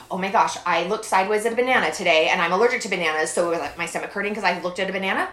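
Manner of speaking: fast, loud worried rambling; mock anxious rambling. Imitating her hysterical overthinking, fast and loud. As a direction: race through the worry.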